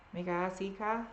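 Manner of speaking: put-on dropped-R Boston accent, joking; Boston accent, R sounds dropped. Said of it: "an R C car with a Boston accent?".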